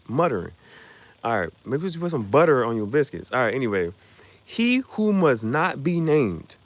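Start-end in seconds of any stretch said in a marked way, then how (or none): 4.4-6.5 very slow, ominous villain line. Retold or imitated. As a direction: stretch each word out darkly. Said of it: "He started talking like that".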